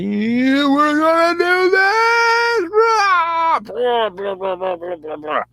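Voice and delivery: high, drawn-out charging yell, falling away into babble; mock war cry that breaks down into blahs; battle cry. Narrator playing two armies charging, mock battle cry.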